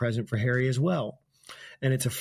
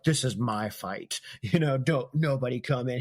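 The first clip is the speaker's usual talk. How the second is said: mock anime hero. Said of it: "very much like how in anime".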